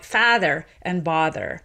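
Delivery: father and bother in a Boston accent, the two vowels kept apart. Shown as a demonstration. Linguist demonstrating Bostonian vowels to radio host, Boston accent. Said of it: "you'll say something more like".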